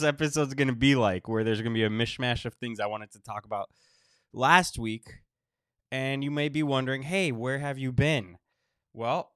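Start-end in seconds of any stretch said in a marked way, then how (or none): 1.3-9.3 short of breath, sick and wheezy. Real, not acted. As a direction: talk through a congested chest. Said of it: "I think you can still hear it in my voice".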